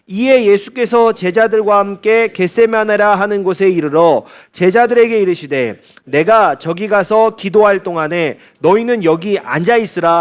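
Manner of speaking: slow, measured congregational Bible reading; scripture reading. Real, not acted. Preacher leads the congregation through the verse, slow scripture reading. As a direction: read the verse out slowly for all to follow.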